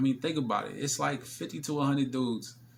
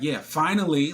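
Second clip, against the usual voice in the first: imitating her; 5 semitones higher, 8 dB louder than usual. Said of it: "She was like".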